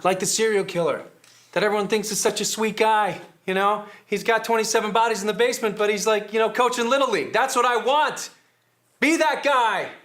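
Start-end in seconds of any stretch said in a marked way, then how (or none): 1.5-9.9 rising steadily higher, building to an urgent demand; fervent pep talk. Acted. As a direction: pitch it harder with every phrase. Coach-like pitch builds to demand.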